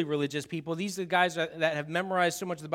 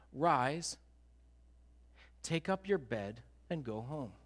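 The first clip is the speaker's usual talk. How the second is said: gentle command; 6 semitones lower, 10 dB quieter, slower than usual. Acted. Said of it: "looks at him and says".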